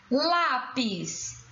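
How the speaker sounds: "Lápis" stretched, leaning on LÁ; syllable by syllable. Shown as a demonstration. Teacher showing the stressed syllable, "Lápis" sounded out. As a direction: draw out "Lápis" in two beats. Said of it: "Sílaba tônica".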